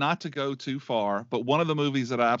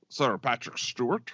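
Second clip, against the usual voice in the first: put-on Sean Connery accent. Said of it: "I said that in my Sean Connery accent".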